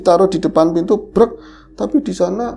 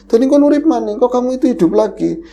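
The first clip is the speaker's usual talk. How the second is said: higher, louder startled cry; retold shock; 7 semitones higher, 4 dB louder, faster than usual. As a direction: voice the fright of seeing it move. Retold shocked outcry at photo. (teriakan kaget yang diceritakan)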